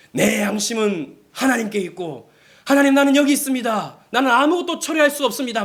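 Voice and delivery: imagined heroic stand, pitch climbing high; bold declaration. Acted. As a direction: proclaim it boldly, rising as you go. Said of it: "막 담대하게 말했을 것 같죠".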